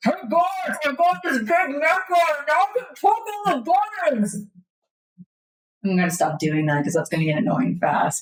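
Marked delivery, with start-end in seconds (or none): 0.0-4.3 booming, high, amplified giant-robot voice. Playing a character who has climbed into a giant war strider, in a booming amplified voice. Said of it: "In the booming voice that amplified by this".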